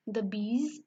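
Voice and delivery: normal talking voice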